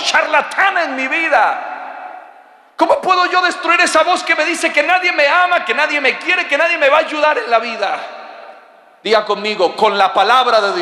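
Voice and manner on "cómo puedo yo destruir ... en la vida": preaching shout. Acted. Preacher shouting the devil's lies.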